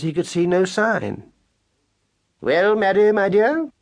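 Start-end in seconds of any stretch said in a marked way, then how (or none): 2.4-3.7 higher, louder genteel mouse voice; fond husband mouse. Acted. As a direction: greet her like a cultured old gentleman. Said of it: "he said, peering short-sightedly".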